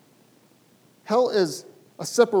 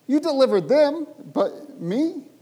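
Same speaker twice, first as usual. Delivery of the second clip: pleading cry; 8 semitones higher, 5 dB louder, slower than usual. Acted. Pleading voice of the psalmist.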